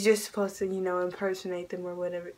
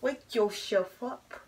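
whispered; much slower than usual. Real, not acted. Whispering to the puppy.

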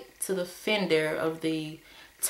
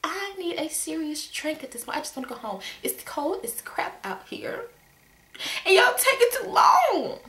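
exasperated rant; 8 semitones higher than usual. Retold or imitated. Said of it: "I'm like".

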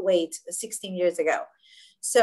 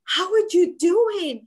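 worried pity; 7 semitones higher, 6 dB louder, slower than usual. Retold or imitated. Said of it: "with this kind of worry, sad feeling".

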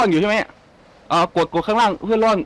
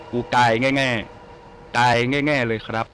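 mock whimper; 4 semitones lower, much slower than usual. Player mourns his in-game death, slow mock crying. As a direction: whimper out the death like a pouting kid.

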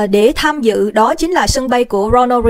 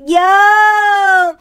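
cheering toast; 7 semitones higher than usual. Acted. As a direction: raise the glass and cheer. Toasting the victory. (hô vô để nâng ly)

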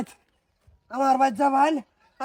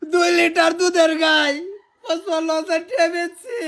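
tearful lament; 3 dB louder than usual. Acted. Lamenting the sold milk cow.

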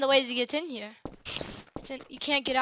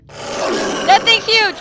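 slow, drawn-out awe, louder; amazed; 7 semitones higher, 12 dB louder, much slower than usual. Real, not acted. First sight of a huge monster, slow amazement. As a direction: stretch it out in wonder.

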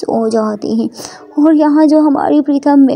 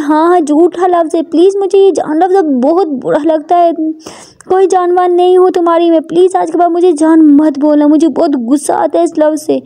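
raised-pitch, insistent annoyance; irritated Prita; 4 semitones higher than usual. Acted. Prita forbids the word darling, irritated. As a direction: tell her off with mild anger.

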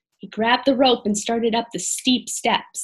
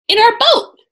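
quickly; 12 semitones higher, 6 dB louder than usual. Acted. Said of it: "Annie said quickly".

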